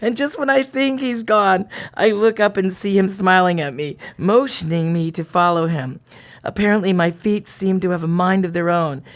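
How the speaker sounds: lightly dramatized diary narration; diary reading. A narrator's reading. Reading the diary to a co-host, lightly dramatized storytelling. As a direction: read it out like a steamy romance story.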